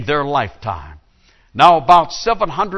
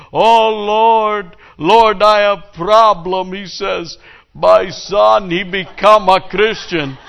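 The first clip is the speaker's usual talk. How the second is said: higher and louder, crying out to heaven; loud pleading prayer; 7 semitones higher, 7 dB louder, slower than usual. Acted. Rabbi pleads with God in the synagogue, loud and high. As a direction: call out to the Lord in mock despair.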